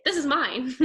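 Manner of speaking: laughing mock claim.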